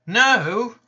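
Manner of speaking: a loud, high, emphatic No; sharp no. Retold or imitated. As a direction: shut it down hard. Flat refusal in dialogue.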